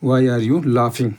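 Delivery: very slow, word by word; slow dictation. Shown as a demonstration. Teacher dictating the answer to students, very slow. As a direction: drag each word out so students can write it. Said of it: "slow take then normal repeat".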